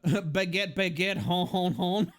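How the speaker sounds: lightly hammed-up French caricature; hint of cartoon French; mock French accent. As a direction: play a stereotype French person with a nasal-free honking laugh. Mock French stereotype after saying from France.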